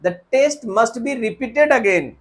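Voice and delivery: slow faulty sentence; slow wrong example. Shown as a demonstration. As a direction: read it out slowly. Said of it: "नहीं sir, हम कहेंगे".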